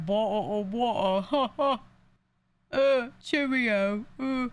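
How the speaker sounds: hammed-up British cheerio, drawn out; mock British accent. Imitating people who mock a Brit's speech, mock British accent. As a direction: do a bad, exaggerated British impression. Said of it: "slightly British, and they're like".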